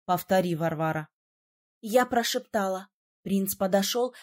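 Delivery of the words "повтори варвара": lower, firm command; lower prince voice. A narrator's reading. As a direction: tell her to repeat. (низко, твёрдо)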